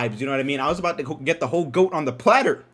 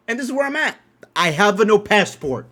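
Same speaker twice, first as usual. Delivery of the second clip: exasperated; 6 semitones higher, 6 dB louder than usual. Real, not acted. Complaining he is stuck.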